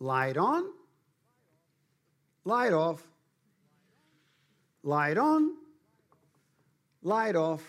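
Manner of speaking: tiny, high, swooping talking-toy voice. Remembering a toy house whose light switch made a voice speak: little toy voice. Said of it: "a little voice would go".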